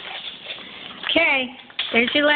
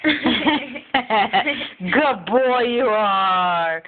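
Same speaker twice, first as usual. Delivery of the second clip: very slow, drawn-out praise; talking to a dog; much slower than usual. Real, not acted. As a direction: stretch the words for the dog.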